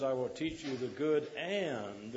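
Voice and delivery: AND drawn out slowly; stress on AND. Shown as a demonstration. Preacher quoting scripture to his congregation, stressing AND. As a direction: lean long and hard on the word "and". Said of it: "I want to emphasize that word".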